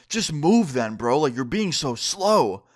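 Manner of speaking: impatient, slow and dismissive, voiced as the rude furry; rude brush-off. Furry in the doorway telling the narrator to hurry, rude and slow. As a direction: talk down to him like he's in your way.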